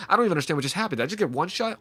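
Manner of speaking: mock angry gamer. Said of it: "They're angry".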